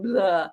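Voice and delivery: blubbered "blah", lips loose; dictionary-style demo of blubbering; lip-blubbering sound. Acted. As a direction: flap it out over the lips. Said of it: "to blubber a figure over one's lips".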